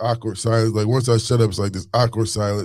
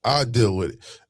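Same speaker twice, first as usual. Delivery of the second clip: defensive protest; 4 semitones higher than usual. Retold or imitated. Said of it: "I'm like".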